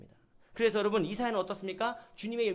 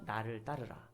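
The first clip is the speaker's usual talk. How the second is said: Jesus' call, softly; 10 semitones lower, 9 dB quieter, slower than usual. Retold or imitated. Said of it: "다른 사람에게 뭐라고 하십니까".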